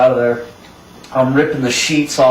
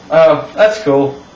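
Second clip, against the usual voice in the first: retold casual report; understated, matter-of-fact delivery; 2 semitones higher than usual. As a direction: imitate a brother passing on news as routine. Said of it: "just kind of matter-of-factly".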